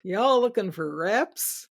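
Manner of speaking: slow Southern drawl, rising at the end; Southern accent. Retold or imitated. Gentleman phoning about the magazine ad, Southern accent. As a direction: imitate a Southern salesman's unhurried question. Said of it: "in a very thick Southern accent".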